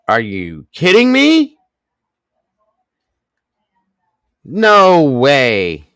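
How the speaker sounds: high, loud, shocked; can't believe the gift; stunned disbelief. Real, not acted. Streamer stunned by huge gift.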